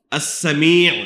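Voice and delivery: السمیع with short first a and long ee, as-Samee'; careful model of as-Sa-MEE'; correct pronunciation. Shown as a demonstration. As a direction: stretch the last syllable of السمیع. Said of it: "تو جو صحیح تلفظ ہے".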